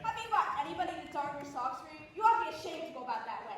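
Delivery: brisk indignant scold; scolding passenger. Acted. Fussy lady scolds man on train, brisk indignant. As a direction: tell them off, fast and sharp.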